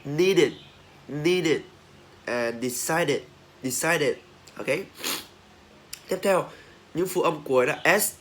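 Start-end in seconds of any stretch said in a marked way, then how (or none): 0.0-4.2 "needed, decided" ending in a short "-dit" syllable. Shown as a demonstration. Teacher drilling -ed after D, "needed, decided" ending "-it". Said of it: "khi mà đọc là it ấy".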